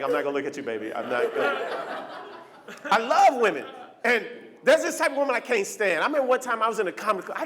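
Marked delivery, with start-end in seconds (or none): 0.0-2.1 refusing husband. Retold or imitated. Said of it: "he won't even look at it like".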